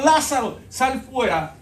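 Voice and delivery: a ringing summons to the dead man; loud command. Retold or imitated. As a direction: call him out of the tomb with power. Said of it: "Jesús le dijo".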